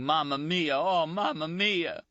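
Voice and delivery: high, pained wailing of a dying man; slow, broken anguished wail; anguished cry. Acted. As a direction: cry out for your mother in agony. Wounded man crying out in pain.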